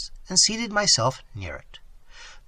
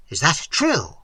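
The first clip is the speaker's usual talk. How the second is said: altered voice. Acted. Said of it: "he said in an altered voice".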